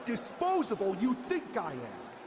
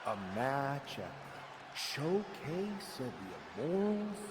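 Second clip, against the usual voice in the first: scornful; 8 semitones lower, 6 dB quieter than usual. Acted. Scornful question in promo.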